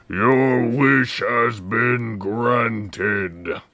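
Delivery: slow, booming dragon voice. Acted. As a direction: grant it like an ancient dragon. The dragon Porunga grants wish.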